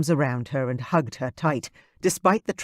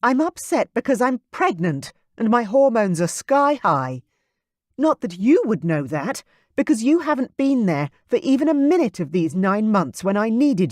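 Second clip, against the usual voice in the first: higher and louder, accusing; angry outburst; 7 semitones higher, 4 dB louder than usual. Acted. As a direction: let the hurt boil over. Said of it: "her red eyes flashing with anger".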